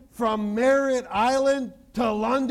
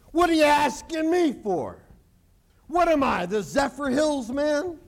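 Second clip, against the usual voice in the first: exasperated Moses; 6 semitones higher than usual. Acted.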